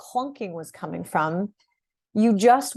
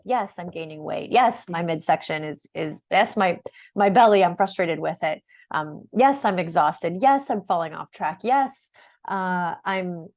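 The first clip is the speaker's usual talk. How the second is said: lower, tired admitting voice; weary client confessing; 3 semitones lower than usual. Retold or imitated. A hint of a tired midlife woman admitting her struggles to the coach, lower. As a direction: own up to it like a worn-out client. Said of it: "when you identified with".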